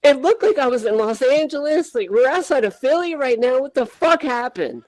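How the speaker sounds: a mild take on a rattled friend, pitch climbing; panicked Chad. Retold or imitated. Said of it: "He's like".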